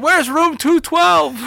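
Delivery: high, slow, far-off mock-innocent question; smart-ass reply. Smart-ass new kid asking the bully for directions, mock sweet. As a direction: play dumb, sweetly cheeky. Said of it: "me being smart ass me, I said".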